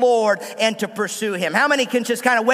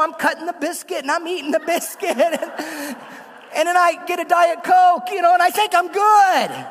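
talking through laughter, pitch up; laughing through it; 5 semitones higher than usual. Real, not acted. Pastor confessing diet slips to church, laughing. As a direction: laugh at your own lack of willpower.

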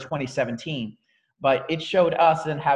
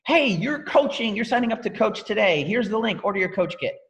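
mock pushy sign-up pitch, higher; pushy recruiter; 6 semitones higher than usual. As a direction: parody a pushy hard sell. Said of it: "Offering is not saying".

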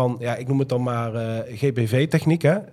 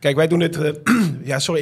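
having a cold; 3 semitones higher, 3 dB louder than usual. Real, not acted. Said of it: "ik ben een beetje verkouden vandaag".

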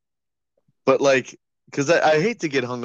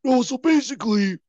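imitating a sick voice; 10 semitones higher than usual. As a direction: keep mocking the sick friend in a high strained voice. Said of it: "Here, I'll do it for you".

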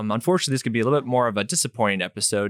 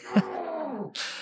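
mock sob; 6 dB quieter than usual. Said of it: "going through these phases of grief".

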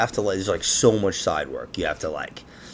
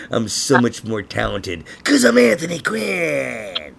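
Anthony Quinn voice; slower than usual. Retold or imitated. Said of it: "I was like".

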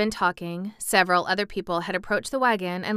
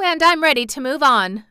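laughing; 6 semitones higher, 6 dB louder than usual. Real, not acted. Reader laughing through line.

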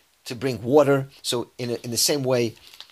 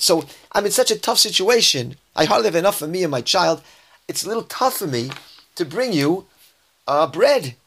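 raised-pitch anxious plea, a touch of panic; widow's panic; 4 semitones higher than usual. Retold or imitated. Widow telling Elijah she has only a little flour, anxious and pleading. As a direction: let her worry spill out, pitch up. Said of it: "saying with a lot of excitement and, um, panic in her voice".

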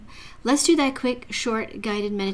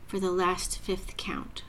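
slow breathy whisper; 2 semitones lower, 7 dB quieter, slower than usual. Acted. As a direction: drop to a whisper on the count. Breath-hold count in meditation.

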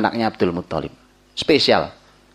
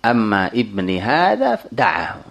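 quoted grandfather's Arabic; slower than usual. Retold or imitated. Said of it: "Kata Ibn Abdul Muttalib".

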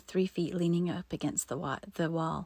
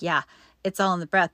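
louder, sarcastic repeat of "Yeah, it's all in the breath"; sarcastic echo; 6 dB louder, faster than usual. Retold or imitated. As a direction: throw the advice back with mock agreement. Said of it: "I'm like".

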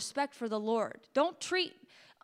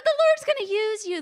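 voice still cracking; 9 semitones higher, 6 dB louder than usual. Real, not acted. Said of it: "my voice still cracks".

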